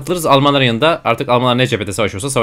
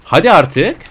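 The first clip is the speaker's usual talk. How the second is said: louder, rising impatient plea; pleading shout; 4 dB louder, slower than usual. Real, not acted. Gamer pleading with the war to end, loud and impatient. Begging the game to finish.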